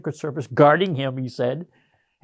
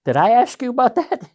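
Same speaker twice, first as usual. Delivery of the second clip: sharp, much higher and louder retort; curt rebuke; 10 semitones higher, 6 dB louder than usual. Retold or imitated. Colonel snaps at the lance corporal questioning him. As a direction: bark it back at the subordinate. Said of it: "He goes".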